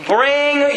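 "Bring" stretched out slowly; stress on Bring. Shown as a demonstration. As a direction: hold "Bring" long before moving on. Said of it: "do you see that next word?".

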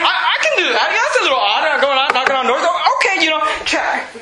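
mock eager checklist. Mocking checklist believer, laughing.

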